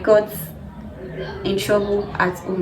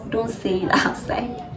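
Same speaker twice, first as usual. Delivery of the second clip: teasing with a laugh; 4 dB quieter, slower than usual. Pretend. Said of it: "I'm just kidding".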